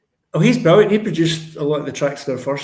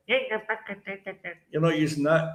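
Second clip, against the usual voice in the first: slow demo; 4 dB quieter, much slower than usual. Shown as a demonstration. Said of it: "So you're not using your".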